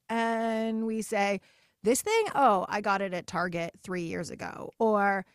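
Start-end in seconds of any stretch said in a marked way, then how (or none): 1.8-4.7 self-deprecating brush-off. Retold or imitated. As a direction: brush the compliment away, playfully. Woman brushing off a compliment.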